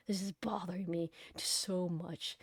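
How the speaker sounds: hushed, breathy whisper. Real, not acted. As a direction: let it slip under your breath. Venting about parents, whispering.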